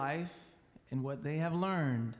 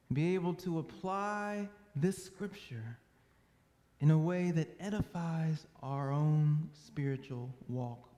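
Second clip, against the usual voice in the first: measured public prayer with long pauses. Real, not acted. Preacher prays for open minds and hearts, measured prayer. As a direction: pray aloud in unhurried, separate phrases.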